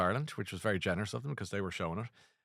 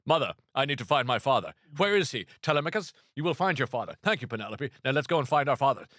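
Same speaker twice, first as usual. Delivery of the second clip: grand, stagey classical actor, higher and louder; hammy Patrick Stewart; 4 semitones higher, 4 dB louder than usual. Shown as a demonstration. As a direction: declaim like an old Shakespearean. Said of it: "you should all be talking like Patrick Stewart in Star Trek".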